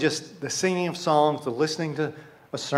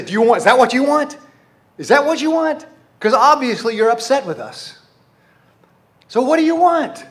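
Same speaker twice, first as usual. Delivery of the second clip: high, loud acted challenge; exasperated demand; 7 semitones higher, 6 dB louder than usual. Upset people come to God demanding, exasperated. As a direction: press the question as if fed up. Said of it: "they come to him and say".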